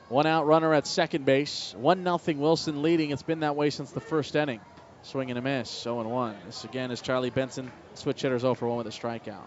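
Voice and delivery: calm baseball radio call between pitches; steady broadcaster calling the count; play-by-play. Acted.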